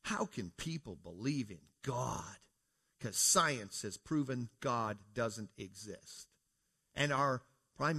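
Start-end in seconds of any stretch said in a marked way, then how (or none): 0.0-6.3 slow, deliberate mock quote of the speech; quoting the Governor General, slowly. Preacher quoting the Governor General to his congregation, slow and mocking. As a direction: lay out each word slowly, mocking it. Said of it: "what she just stood up and said".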